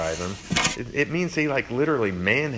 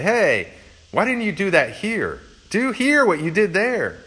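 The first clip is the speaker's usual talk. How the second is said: much higher and louder, indignant; demanding crowd; 10 semitones higher, 5 dB louder than usual. Retold or imitated. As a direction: shout it like jealous neighbours. Hometown crowd demanding miracles.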